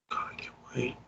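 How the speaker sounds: whispered aside. Real, not acted. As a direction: breathe it out under your breath. Exasperated aside under his breath.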